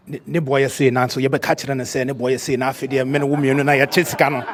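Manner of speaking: lightly voiced scheming agent; a hint of a sly schemer's voice. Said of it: "That's the scheming voice".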